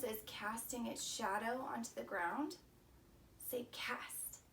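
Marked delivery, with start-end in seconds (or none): 3.5-4.4 soft whisper, say cast; whispered prompt. Pretend. Teacher whispers a prompt for students to repeat, whispering. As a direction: whisper the cue to the kids.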